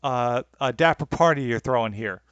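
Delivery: put-on terrible British accent, groping for the words; bad British accent. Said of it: "That's the extent of British accent".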